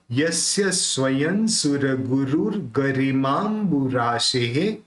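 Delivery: slow measured Sanskrit verse; slow devotional stotra recital; full verse recitation. Shown as a demonstration. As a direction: recite the whole stanza steadily for students. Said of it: "पूरा कैसे होगा?".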